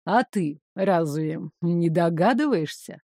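ниже и тише, вкрадчиво; вкрадчивый злодей подкрадывается; вкрадчивый шёпот. Acted. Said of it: "разговаривая вкрадчивым шепотом". (вкрадчивый полушёпот)

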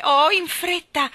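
high, loud urgent cry; anxious plea. Acted. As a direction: beg the bird to hurry. Jane urges the lark.

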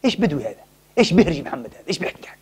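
sneering hypocrites fading to a whisper; mock the Prophet under your breath; scornful mockery. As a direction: hypocrites mocking, dropping to a hush. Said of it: "قالوا للذين أوتوا العلم".

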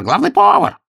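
loud repeated call, high; shouting again. Acted. Master of ceremonies calls the head cook a second time, loud. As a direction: keep yelling for him. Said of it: "закричал".

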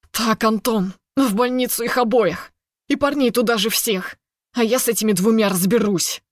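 a hint of a hissing, angry commander. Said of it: "Зло прошипел Алексей".

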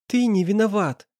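put-on tearful girl insisting; a touch of tears. A narrator's reading. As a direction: insist while holding back tears. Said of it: "глотая слёзы".

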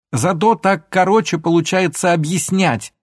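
high loud shout; heated shouted retort. A narrator's reading. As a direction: yell it back at him. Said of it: "снова закричала Алёна".

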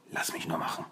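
tonlos gehauchter Satz; flüstere es beruhigend dem Bruder zu; geflüstert. A narrator's reading. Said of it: "flüsterte Donatello". (Donatello flüstert den Brüdern zu: leise)

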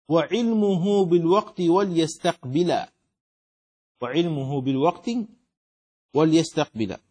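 slow, metrical didactic verse; verse recitation. Acted. Teacher reading the poem on prayer conditions, slow measured recitation. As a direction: recite firmly in even meter, drawing out syllables.

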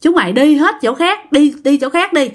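mock scolding, shoo the pests away; grandfather shooing. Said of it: "kêu tụi bay đi đi".

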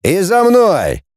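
slow, high shout to follow; shouted order. Acted. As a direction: call the men after you. Gang leader commands.

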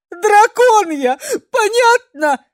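very high, loud crying wail; a sobbing girl wailing to the men; tearful wail. A narrator's reading. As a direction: howl it out sobbing.

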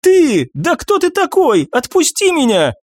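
high banshee shriek, straining to break free; struggling against restraints. Acted. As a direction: scream while fighting to get loose. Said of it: "Ая попыталась вырваться наружу".

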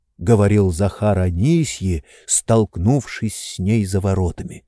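usual speaking voice

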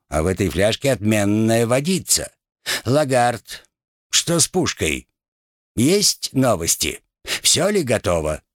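a hint of a lordly captain; lightly voiced aristocratic captain. Rat keeps playing the captain, light aristocratic air. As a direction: carry on the captain's airs. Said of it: "аристократический выговор".

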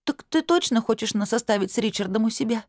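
high, hopeful tearful question; girl still sobbing asks if she may stay; through sniffles. A narrator's reading. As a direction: ask timidly while still sniffling. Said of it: "сказала сквозь всхлипы".

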